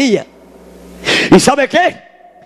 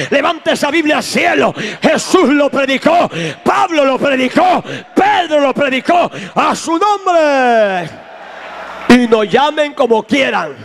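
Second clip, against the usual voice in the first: raised, shouting pulpit cadence; fiery preaching; 2 semitones higher than usual. Acted. Preacher rousing the congregation, full-force shouting. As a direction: preach it out to the whole church.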